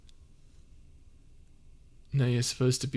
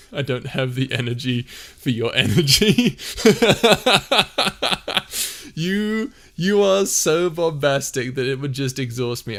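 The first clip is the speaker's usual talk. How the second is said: loud; 3 semitones higher, 7 dB louder than usual. Acted. Teasing friend about his energy.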